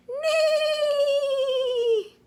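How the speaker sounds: high, laughing neigh; whinny like a horse, playful. Shown as a demonstration.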